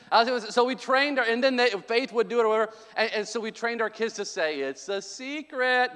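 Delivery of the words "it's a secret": slow, lilting little secret voice; secret sing-song. Shown as a demonstration. Parent showing kids how to say it, sing-song. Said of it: "They have to say it like that too".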